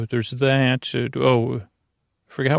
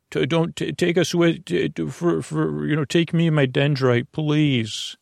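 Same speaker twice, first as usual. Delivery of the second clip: lightly higher, stammering little voice; a tiny cell begging to be taken along; small pleading brain cell voice; 3 semitones higher than usual. Pretend. Brain cells begging to leave.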